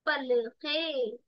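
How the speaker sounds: पलके drawn out very slowly with an added ह breath; slow demo of पलके with an aspirated p; Dakhni pronunciation. Shown as a demonstration. Teacher shows students the Dakhni पलके, very slow. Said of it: "पलके को क्या बना देते हैं".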